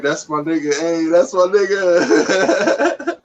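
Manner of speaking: slow, laughing through the line. Retold or imitated. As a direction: drag it out while laughing. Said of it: "come in there like".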